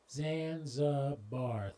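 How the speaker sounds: Zanzibar drawn out slowly, syllable by syllable; Zanzibar, each of its three syllables slow and separate. Shown as a demonstration. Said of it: "three syllables".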